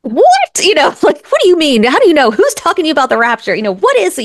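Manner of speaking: high, rapid-fire alarmed questions; mom's high alarmed interrogation; alarmed questioning. Retold or imitated. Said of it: "And I'm almost like".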